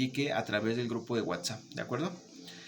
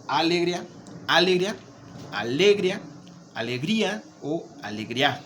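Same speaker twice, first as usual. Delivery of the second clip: alegría said over and over, louder and higher, stress moved each time; shifting stress; 3 semitones higher, 3 dB louder than usual. Shown as a demonstration. Teacher showing wrong stress placements, loud and high. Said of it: "Se escucha muy raro".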